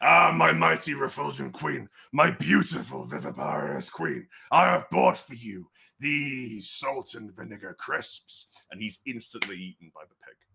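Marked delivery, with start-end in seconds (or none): 0.0-8.5 grandiose, fawning boar-man voice, slow, swooping, creaky. Narrator voices a guy greeting the queen with a gift, boar-headed guy's voice. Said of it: "This is a guy where he's got kind of a boar's head".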